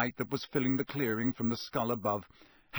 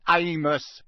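louder, sharp call of the name; loudly; 4 semitones higher, 7 dB louder than usual. A narrator's reading. Mister Weasley stopping Diggory, loud. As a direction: cut in firmly. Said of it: "said Mister Weasley loudly".

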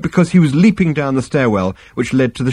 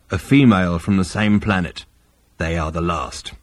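lower, heavy alien captain; low Vogon voice; 4 semitones lower than usual. Acted. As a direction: growl the report flatly. Vogon reply.

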